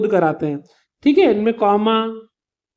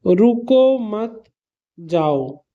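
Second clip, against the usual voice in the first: very slow, "रुको", "मत", "जाओ" evenly drawn out; spaced-out example sentence, "जाओ" set apart and falling; slow, neutral reading; much slower than usual. Shown as a demonstration. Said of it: "जैसे कि मैंने बोला".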